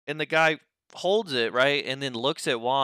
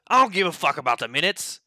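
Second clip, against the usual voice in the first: louder, higher imitated shout; mock yell; 6 semitones higher, 6 dB louder than usual. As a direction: shout it again like the stubborn guy. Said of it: "and he goes".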